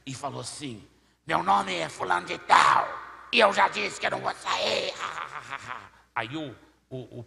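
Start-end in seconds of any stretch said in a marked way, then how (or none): 1.3-4.9 angry demon. Retold or imitated. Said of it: "o demônio olhou com tanta ira". 5.0-5.9 acted evil cackle; demon's mocking laugh. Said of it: "o demônio olhou com tanta ira".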